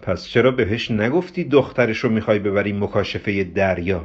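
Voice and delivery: understated, needling question; sarcastic. Acted. Ghasem needles Hamud after the call, mildly sarcastic. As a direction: needle him with a touch of sarcasm. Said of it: "با لحن کنایه آمیزی".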